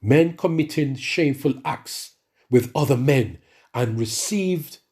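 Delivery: slow, measured Bible reading; slow solemn reading from Romans; scripture reading. Acted. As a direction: read it out slowly and solemnly. Reads scripture aloud.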